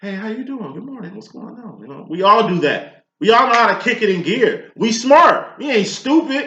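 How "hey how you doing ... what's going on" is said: very hushed, proper, put-on polite phone voice. Speaker imitates a mom answering when important people call, putting on her white voice. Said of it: "putting on her white voice".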